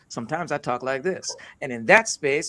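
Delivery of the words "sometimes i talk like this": lightly American-accented English. Shown as a demonstration. Speaker shows an audience the other way of talking, American accent. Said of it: "like this with an American accent".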